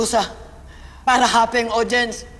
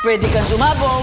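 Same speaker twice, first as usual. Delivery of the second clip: dramatic shout. Shown as a demonstration. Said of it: "Ito ay ang matigo".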